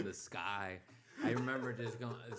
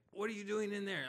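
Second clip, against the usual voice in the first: high-pitched mom voice; imitated mom; 10 semitones higher than usual. Mom knocking on garage door, high nagging imitation. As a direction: call it through the door, pitched way up.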